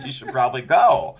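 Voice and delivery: firmly telling her to go; a firm push toward the door. Retold or imitated. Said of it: "and I said".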